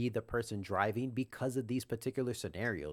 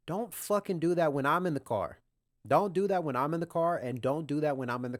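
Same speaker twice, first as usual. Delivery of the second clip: raised, higher and louder scolding; angry rant; 5 semitones higher, 4 dB louder than usual. Real, not acted. To reckless Uber driver, loud angry scolding. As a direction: scold him hard, voice up and loud.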